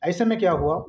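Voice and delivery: usual speaking voice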